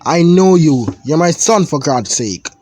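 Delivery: high, loud reprimand; father scolding his lying son; stern father scolding. Acted. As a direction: shut him down hard.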